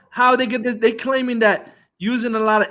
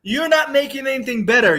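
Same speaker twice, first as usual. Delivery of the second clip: heated rant; 4 semitones higher than usual. Real, not acted. Ranting at the critic.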